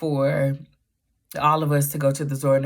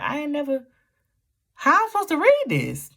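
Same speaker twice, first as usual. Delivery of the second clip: retold frustration; 12 semitones higher, faster than usual. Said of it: "I'm like".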